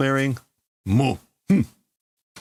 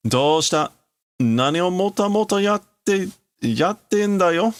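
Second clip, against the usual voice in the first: mocking taunt; 9 semitones higher than usual. Tetsuo jeering at Kaneda for dawdling, mocking taunt.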